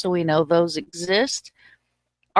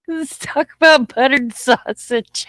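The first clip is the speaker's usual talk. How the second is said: high, loud mock of the clip's catchphrase; mimicking the clip; 7 semitones higher, 5 dB louder than usual. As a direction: parrot the video's line, hamming it up. Mimicking the clip just played.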